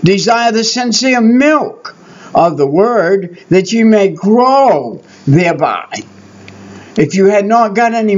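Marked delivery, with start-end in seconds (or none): 0.0-6.0 solemn scripture reading. Shown as a demonstration. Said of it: "read this verse".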